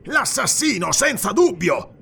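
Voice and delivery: high, accusing cry. A narrator's reading. Guard accusing the stranger before police, high cry. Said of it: "gridò Arus".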